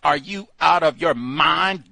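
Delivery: loud, high disbelief; are you out of your mind, loudly; outraged shout. Real, not acted. Outraged reaction to film plot.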